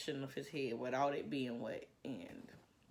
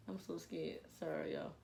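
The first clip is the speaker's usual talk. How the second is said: whispered through laughter, softer; breathless laugh; 4 dB quieter than usual. Real, not acted. Vlogger apologizing to viewers, breathless laughing whisper. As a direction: gasp it out between laughs.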